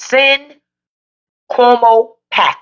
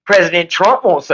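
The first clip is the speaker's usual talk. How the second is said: mocking imitation; 3 semitones lower than usual. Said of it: "You would have swore he just got freed from the fucking fields".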